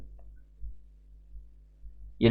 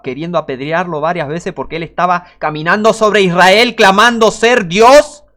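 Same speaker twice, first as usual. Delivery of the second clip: rising preaching shout; 4 semitones higher, 8 dB louder than usual. Real, not acted. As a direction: build the line up until you're crying it out. Preacher building to a climax.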